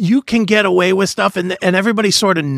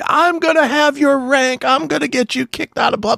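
retold screaming; 10 semitones higher than usual. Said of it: "he started screaming at me".

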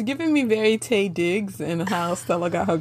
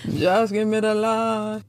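bad Jamaican accent. Co-host joking about being paid to act, bad Jamaican accent. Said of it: "Our accents are not that good".

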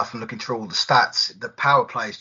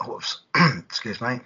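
throat catching mid-sentence; clearing a choked throat; choking; 4 dB louder, slower than usual. Real, not acted. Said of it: "choking on myself there".

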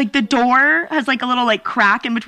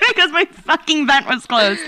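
real laugh breaking into the words, pitched up; laughing exasperation; 4 semitones higher than usual. Real, not acted. Telling a friend about the closed vent, laughing exasperation. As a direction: complain through your own laughter. Laughing at her own ordeal.

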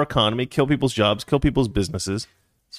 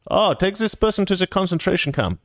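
high, hammed-up German officer giving an order; mock German guard, pitched high; German accent; 8 semitones higher than usual. Host playing a wartime guard, mock German accent. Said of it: "I can do that accent because I'm German".

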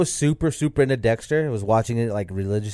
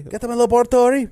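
high, loud cartoon voice; squeaky, loud catchphrase imitation; cartoon boy genius impression; 13 semitones higher, 7 dB louder than usual. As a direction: pitch it way up, like an outraged little scientist. Quotes the cartoon Dexter's catchphrase.

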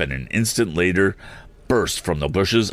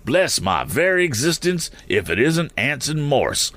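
high-pitched eccentric exclamation; eccentric man crying out; 9 semitones higher than usual. A narrator's reading. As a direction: cry out as an excitable oddball, pitched high. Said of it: "cried the eccentric man".

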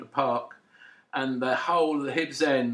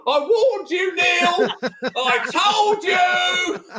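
higher, louder gloating yell; mock yell; 13 semitones higher, 7 dB louder, much slower than usual. Fan yells at the beaten keeper, mock gloating. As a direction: gloat at the keeper after the goal. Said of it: "a low voice yelled".

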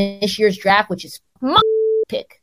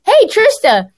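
program director voice; 10 semitones higher, 5 dB louder than usual. Retold or imitated. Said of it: "he was like".

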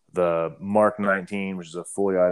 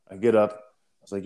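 ordinary delivery

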